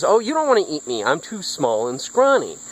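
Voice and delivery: high, quick little goat voice; pleading little goat. Acted. Littlest goat talks troll out of eating him, high pleading.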